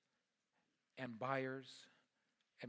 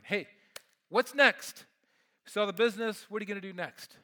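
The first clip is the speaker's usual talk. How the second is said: eager wondering; 5 semitones higher, 13 dB louder than usual. Retold or imitated. Voicing the wondering question.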